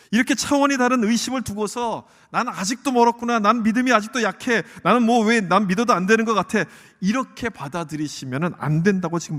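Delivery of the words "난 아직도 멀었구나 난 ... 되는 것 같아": loud, higher-pitched self-blame; self-reproach. Acted. Believer blaming own weak faith, loud self-reproach. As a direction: lament your weak faith forcefully.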